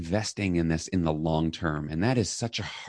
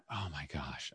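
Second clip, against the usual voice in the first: dismayed; 4 semitones lower, 16 dB quieter than usual. Retold or imitated. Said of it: "And I felt horrible".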